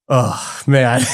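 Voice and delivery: mock weary sigh on the words; sighed-out, mildly exasperated impression; imitated sigh. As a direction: imitate a friend sighing in dismay. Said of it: "just having this huge sigh".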